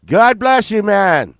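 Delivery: Ozzy yelling at a starstruck fan, frantic and loud; Ozzy Osbourne. Retold or imitated. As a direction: bark it like a frazzled, impatient Ozzy. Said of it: "He's like".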